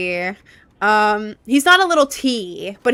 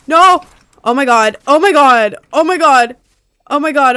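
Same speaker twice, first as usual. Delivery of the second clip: exasperated shout; 3 semitones higher, 7 dB louder than usual. Real, not acted. After dying in game.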